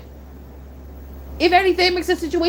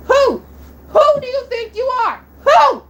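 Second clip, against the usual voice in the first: higher, louder angry yelling; furious shout; 11 semitones higher, 5 dB louder than usual. Real, not acted. Youtuber yelling at haters who attacked her idol, furious. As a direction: demand it of the haters at full volume.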